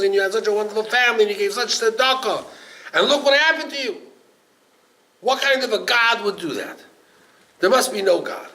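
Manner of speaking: loud, high, insistent acted outcry; voicing an incredulous crowd at full volume; impassioned onlookers. Voices indignant onlookers addressing Eov.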